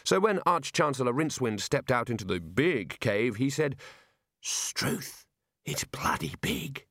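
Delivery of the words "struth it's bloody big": awed whisper, slow and hushed; low whisper. Acted. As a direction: whisper it like the cave might hear you. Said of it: "in a low whisper".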